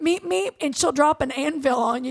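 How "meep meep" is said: cartoon roadrunner.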